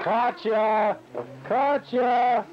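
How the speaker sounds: loud call across the yard. Real, not acted. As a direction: call her name loudly. Calling someone from afar.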